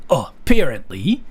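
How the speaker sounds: "apparently" drawn out slowly, rising at the end; variant pronunciation. Shown as a demonstration. Listing how people differ on the word, variant pronunciation. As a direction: offer "apparently" as another slow variant. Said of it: "people say it, like, differently".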